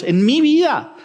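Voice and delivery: "mi vida" recalcado, subiendo el tono; énfasis en MI VIDA. Real, not acted. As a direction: recalca "mi vida" con tono alto y caída final. Recalca frente a los otros. ("mi vida" con énfasis, tono más agudo)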